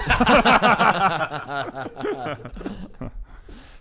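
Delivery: long, loud, high burst of laughter; real helpless laugh. Real, not acted. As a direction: break into big laughter. Long laugh at Reba question.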